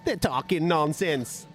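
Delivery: badly faked Jamaican accent, high-pitched; Dillian White. Dillian losing it over Sky, in a mock Jamaican accent. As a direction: rant like a cartoon Jamaican. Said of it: "that's a shit blooming accent".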